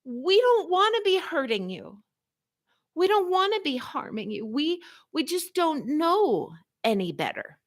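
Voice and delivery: very high, pleading crystal voice; crystals character. Acted. Improv crystals explaining themselves to the woman, high and pleading. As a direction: beg like small guilty crystals. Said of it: "went into big character".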